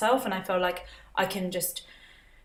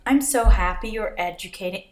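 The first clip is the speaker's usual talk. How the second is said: attempted American accent; 5 dB louder than usual. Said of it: "No, no, no, forget it. I need practice".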